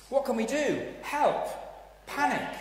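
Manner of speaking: high, loud panicky cries for help; panicked cry. Acted. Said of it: "the people of Israel are saying".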